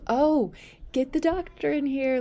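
high, loud urgent shout; urgent call. Retold or imitated. Nurse urgently calls doctor.

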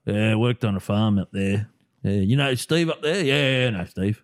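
slow, drawn-out rural Australian chat; Aussie country local. Pretend. Two locals chatting about the farm, slow mock Aussie accent. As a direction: drawl like an Aussie farmhand chatting. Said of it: "It doesn't sound like you".

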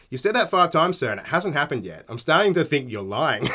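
lightly mocking, polite needling; passive-aggressive. Agent answering repeated threats, mildly passive-aggressive. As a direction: imitate an agent coolly calling a bluff. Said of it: "just passive-aggressive as shit".

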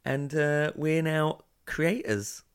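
slow whisper. Real, not acted. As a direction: whisper it slowly. Kids asleep upstairs.

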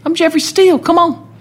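strut like a star who won't be denied; hammed-up cocky rock star; cocky singer swagger.

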